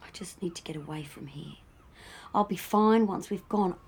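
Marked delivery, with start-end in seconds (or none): 0.0-1.5 low, very soft, breathy near-whisper; drained. Acted. Ill partner needing to get away, quietly drained. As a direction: say it almost to yourself.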